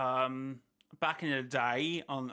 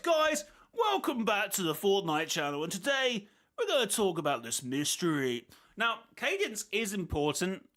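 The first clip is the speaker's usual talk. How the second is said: mock dramatic YouTuber; 4 semitones higher than usual. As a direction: ham up a YouTube intro. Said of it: "To try to add dramatic effect".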